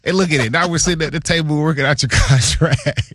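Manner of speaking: hammed-up, playful gloating; mock high-pitched Colbert at the contract table; teasing GM. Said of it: "he was like".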